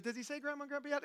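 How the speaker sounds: high, quick imitation of a waitress; cooing waitress. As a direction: put on a high voice, asking fondly about a child. Waitress asks about the toddler.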